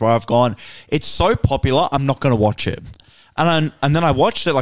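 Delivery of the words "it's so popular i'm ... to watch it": ordinary talk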